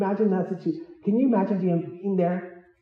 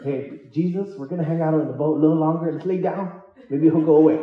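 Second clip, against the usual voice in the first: chuckling, sheepish plea; laughing mock cowardice. Himself begging Jesus to stay on the boat, laughing. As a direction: beg to hide, laughing at yourself. Preacher imitates his timid self.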